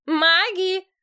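«Маги!» выкрикнуто ещё выше и громче; зовёт во весь голос, выше прежнего; громкий крик. A narrator's reading. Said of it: "На громкие крики". («Маги!» срывается на высокий крик)

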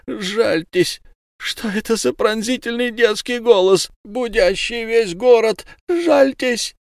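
high, slow, wailing plea from the trapped man; captured werewolf pleading with Ulenspiegel. Acted. Trapped fisherman begging in pain.

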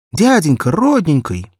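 put-on high, loud child's voice, anxious; a frightened little girl begging for help; little girl pleading. Barefoot girl asks every passer-by, high pleading child voice.

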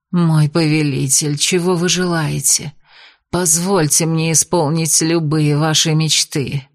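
медленно, томно и ниже; соблазнительно тянуть слова. Acted. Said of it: "томно произнесла Шидар". (ведьма томно обращается к повелителю)

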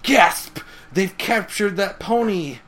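high, loud mock-dramatic gasp; hammed-up horror, slowing on the words; Twilight. Twilight reacting to the capture, high mock-shocked voice. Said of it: "And then Twilight goes".

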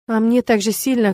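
plain reading voice

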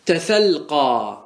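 تسلقى stretched out very slowly, each syllable held; slow demo. Shown as a demonstration. Teacher modelling the example for students, very slowly. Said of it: "مثال ذلك".

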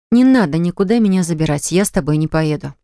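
plain reading voice

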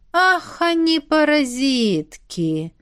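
drawn-out annoyed oath; mock cursing brother. A narrator's reading. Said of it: "ругнулся любвеобильный братец". (протяжное ругательство)

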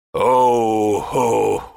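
very slow, drawn-out mocking chuckle; villain's gloating laugh. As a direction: chuckle like a villain enjoying the show. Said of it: "раздался смешок".

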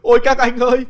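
high, wailing woman's voice; keen over the ruin, voice climbing; wailing lament. Acted. Wife wails to the men over the lost money, high and despairing.

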